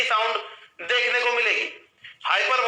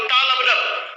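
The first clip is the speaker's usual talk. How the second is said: slow rhythm demo; much slower than usual. Shown as a demonstration. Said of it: "लब डब टा हो गया".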